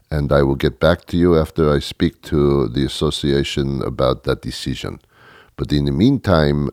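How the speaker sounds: self-important businessman with a mild put-on French accent; phony French accent. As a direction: pretend an important phone call in a French accent. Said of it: "you put on a phony accent".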